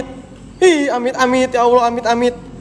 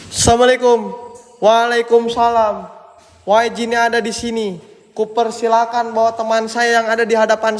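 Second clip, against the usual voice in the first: mock incantation; 3 semitones lower than usual. Mock spirit summoning chant.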